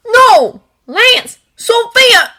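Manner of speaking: panicked, shaky plea; wavering voice. Acted. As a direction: voice nearly cracking, loud. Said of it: "hating the waver in his voice".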